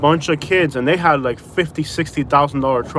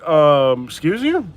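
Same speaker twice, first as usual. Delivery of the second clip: mock taken aback; much slower than usual. Customer answering a rude drive-thru worker, mock affronted. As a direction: act out being offended, pitch leaping up. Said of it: "I'm like".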